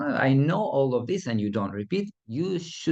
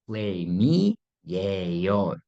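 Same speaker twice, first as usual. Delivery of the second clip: slow model phrase; 2 semitones lower, much slower than usual. Shown as a demonstration. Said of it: "Repeat after me".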